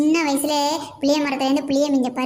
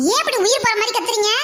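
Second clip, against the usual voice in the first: higher, faster rebuke; exasperated scolding; 5 semitones higher, faster than usual. Acted. Aunt rebukes the screaming girls, faster and higher. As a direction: push the question out fast and high.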